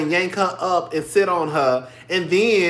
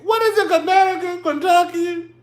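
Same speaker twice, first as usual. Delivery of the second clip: questioning pitch; 9 semitones higher than usual. Real, not acted. Unsure, teasing Dorit's accent.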